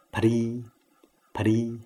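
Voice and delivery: 不离 as phṛ, p with a puff of air; PH with dotted R. Shown as a demonstration. Teacher drills P H R一点: 不离 as phṛ. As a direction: say 不离 as "phṛ", aspirated p, light r. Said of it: "P H R一点".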